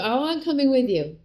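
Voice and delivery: high eager mock chirp; mock clingy self. Wife mimicking herself chasing husband, high and eager. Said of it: "and I just go".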